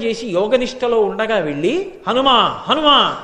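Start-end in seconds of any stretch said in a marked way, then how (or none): 2.1-2.6 a firm call of the name Hanuma, falling at the end. Retold or imitated. Garuda calling Hanuma in the cave, firm call. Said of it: "అని పిలిచారు". 2.6-3.2 Hanuma called again, drawn out and falling; louder call. Retold or imitated. Garuda calls Hanuma again, stretched-out call. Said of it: "అని పిలిచారు".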